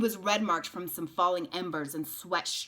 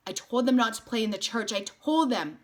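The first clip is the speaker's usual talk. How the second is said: panicked; 5 semitones higher, 6 dB louder than usual. A narrator's reading. Panicked woman.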